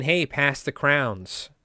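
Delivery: CROWNS said short for crayons, one drawn-out syllable; slow line landing on one-syllable CROWNS. Acted.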